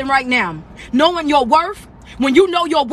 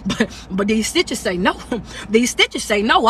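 laughing; 4 semitones lower than usual. Real, not acted. Laughing about stitches stopping him.

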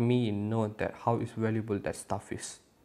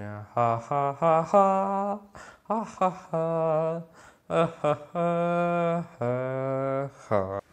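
laughing; 6 semitones higher, much slower than usual. Real, not acted. Laughs at own misfortune in game.

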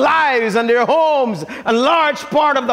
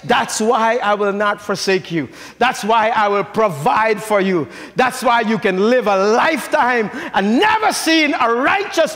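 God's quiet reassurance; quiet tender God; 4 semitones lower than usual. Acted. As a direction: speak it gently as a promise. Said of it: "God says".

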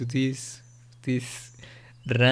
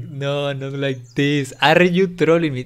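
frustrated; 6 dB louder than usual. Retold or imitated. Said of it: "I was saying a lot".

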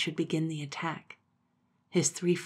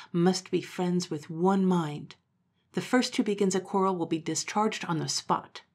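firm and a little louder, like a leader addressing troops; commanding Momotaro; 3 dB louder than usual. Acted. Momotaro ordering the three animals, firm and commanding. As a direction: lay down the law to the troops.

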